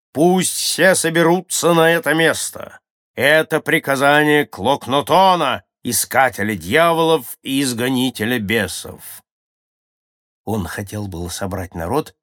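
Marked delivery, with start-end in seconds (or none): 0.1-9.2 loud, high proclamation, easing at the end; shouted command. A narrator's reading. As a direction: call everyone together at the top of your voice. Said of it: "Шаман увидел это и закричал". (громкий повелительный крик)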